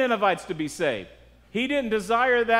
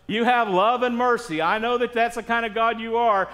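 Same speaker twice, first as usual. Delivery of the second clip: lively acted protest to God; complaining; 2 semitones higher than usual. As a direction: argue the grievance with mild mock indignation. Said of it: "He's complaining to God".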